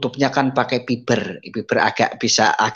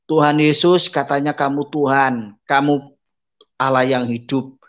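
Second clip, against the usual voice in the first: tearful prayer; 3 semitones higher than usual. Retold or imitated. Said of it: "saya berlutut".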